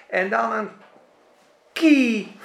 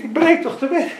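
anxious believer; 8 semitones higher, 3 dB louder than usual. Acted. Acted anxious believer dialogue.

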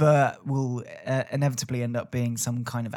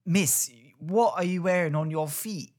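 imitated London schoolkid; drawn-out London kid's mock challenge; London accent; 3 semitones higher than usual. Schoolkid mocking the teacher's shoes, London accent. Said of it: "That's just a London accent".

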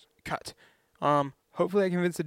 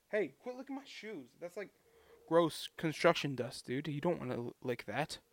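scolding the dog; 6 dB quieter than usual. Real, not acted. Scolding the dog mid-vlog.

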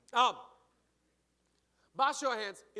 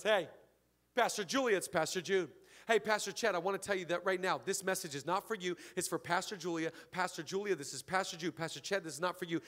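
lightly imitated pastor leaving a voicemail, lowered voice; low, soft, running on with repeated names; Pastor Jude; 3 semitones lower, 3 dB quieter than usual. Friend leaving a voicemail for the pastor's wife, lightly imitated, low and soft. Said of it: "This is how he talks".

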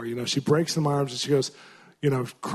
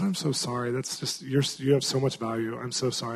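tender comfort; 5 dB quieter than usual. Retold or imitated. Comforting a weeping woman.

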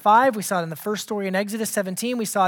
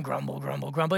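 very low, soft mutter; low grumble; 8 semitones lower, 8 dB quieter than usual. Shown as a demonstration. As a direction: grumble it under your breath. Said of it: "it's low in the voice".

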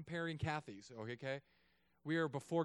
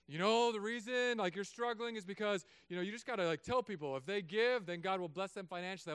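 imitating other pastors; 3 semitones higher, 4 dB louder than usual. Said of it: "Other pastors have said".

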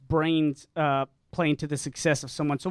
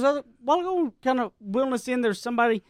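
lightly voiced young girl, higher; a hint of a young mother explaining; teen girl voice; 4 semitones higher than usual. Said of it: "She goes".

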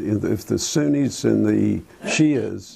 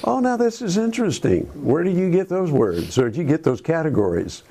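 pitched way up, then speeding into the questions; mock surprised thought; 7 semitones higher than usual. Thinking aloud on hearing local news say good and evil, sounding amazed. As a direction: act out your own amazed inner voice. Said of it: "And I thought".

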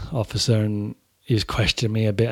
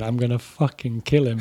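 through teeth. Retold or imitated. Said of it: "just through his teeth".

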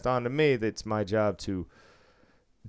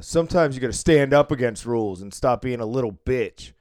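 a bit louder, taunting; mock loud jab; retold loud taunt; 5 dB louder than usual. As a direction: say it for the whole table to hear. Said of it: "loudly enough for the table to hear".

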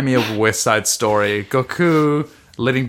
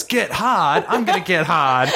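laughing through the quote; 6 semitones higher than usual. Retold or imitated. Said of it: "and then he goes".

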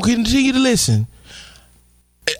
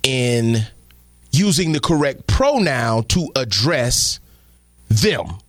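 respectful voice; 12 semitones lower than usual. Pretend. Host explaining the clip to viewers, in a lightly voiced respectful tone. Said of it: "I'm speaking the way I am because I wanna be respectful".

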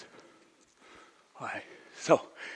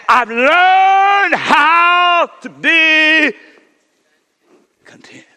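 learned how to be content, dragged out and shouted up high; a sudden preaching cry, stretched long; slow shouted quote; 12 dB louder, much slower than usual. Retold or imitated. Preacher to the church, slow shouted proclamation. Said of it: "So he said".

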